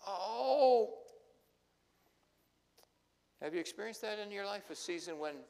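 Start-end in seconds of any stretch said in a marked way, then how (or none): 0.1-1.0 high, loud gasp of dismay; a stricken, crying oh; shocked cry. Acted. Disciples hearing the body is gone, shocked crying oh.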